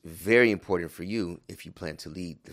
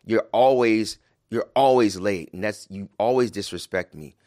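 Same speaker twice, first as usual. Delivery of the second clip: louder, accusing wife's complaint; mock angry accusation; 7 dB louder than usual. Wife accusing husband in argument, mock angry. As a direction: throw the accusation back at him, hammed up. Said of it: "Like she says".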